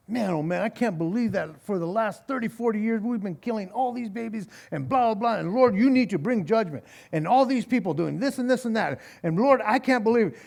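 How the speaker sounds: fast mock lament to the Lord; sarcastic mock prayer. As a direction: rattle off a hammed-up complaint to God. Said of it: "forgive me for my sarcasm".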